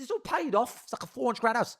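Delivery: mock amazement. Acts out amazement at psychic's house.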